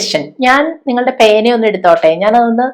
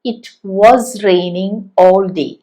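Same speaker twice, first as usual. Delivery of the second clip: slow model reading; 3 semitones lower, much slower than usual. Shown as a demonstration. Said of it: "ആലോചിച്ച് നോക്കൂ".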